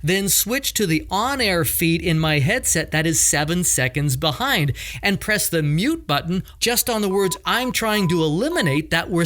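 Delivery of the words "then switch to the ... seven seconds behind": ordinary delivery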